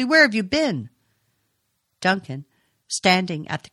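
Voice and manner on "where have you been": sharp. A narrator's reading. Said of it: "she said sharply".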